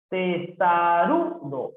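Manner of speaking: "Testarudo" drawn out, RU long and strong; stress on RU. Shown as a demonstration. Teacher showing a palabra grave, "Testarudo" slow with stressed RU. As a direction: stretch "Testarudo" slowly up to RU. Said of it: "es grave".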